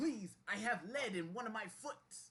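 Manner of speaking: high, begging, pleading talking-fish voice. A caught fish begs not to be thrown back; talking fish begging. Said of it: "I'm pretty sure this fish is an endangered species. We gotta throw it back. No, don't throw me back".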